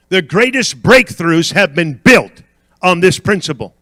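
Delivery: punched key words, deliberate pauses; forceful, rhythmic pulpit declaration; emphatic preaching. Real, not acted. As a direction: drive each claim home to the congregation.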